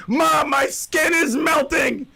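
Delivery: a lightly voiced frightened child; panicked kid. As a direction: cry it out like a scared kid running in from the pool. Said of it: "Your kids are gonna come in".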